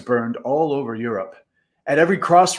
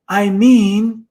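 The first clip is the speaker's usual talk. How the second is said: gasped; 8 semitones higher, 6 dB louder than usual. A narrator's reading. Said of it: "gasped Pipkin".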